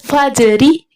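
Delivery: "फज री" with a small bounce on the ज; bounced jeem. Shown as a demonstration. Teacher showing students how "फज री" is read, ज bounced. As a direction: bounce the ज in "फज री" before the री. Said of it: "यानी जीम को हलाओगे".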